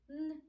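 "Н" alone, non-palatal; hard N. Shown as a demonstration. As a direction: say an isolated hard "Н". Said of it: "твердий приголосний звук".

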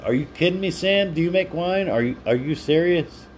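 can't believe the viewer makes wine; surprised. Real, not acted. Streamer amazed that viewer makes wine, high disbelief.

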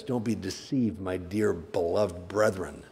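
soft, slowing, loving warning; a fatherly, tender caution to dear brethren; tender pastoral plea. Shown as a demonstration. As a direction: plead gently like a caring elder. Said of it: "And he said it like this".

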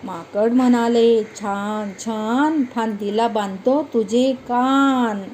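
put-on slow, sing-song poem reading for children; poem recitation. Teacher reciting a funny poem to children, slow sing-song. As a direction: recite each line slowly to the class.

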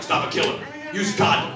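low, mock-ominous announcer; scary commercial. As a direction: intone it like a grim warning ad. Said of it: "Remember they were real scary?".

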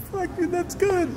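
impressed reaction. Shown as a demonstration. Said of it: "If it helps to, like, say something, it's like".

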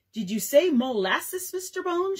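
high, slowed querulous squeak; querulous falsetto. A narrator's reading. Mother playing minstrel to Dad, squeaky querulous falsetto. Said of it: "she squeaked in a querulous falsetto".

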